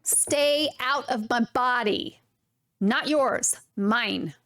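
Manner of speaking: slow, firm demand; emphatic rant. Real, not acted. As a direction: lay down the boundary word by word. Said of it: "why I'm yelling at you".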